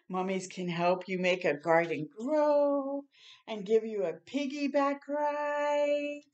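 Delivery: gentle storybook reading voice; reading to children. Acted. Reading picture book aloud.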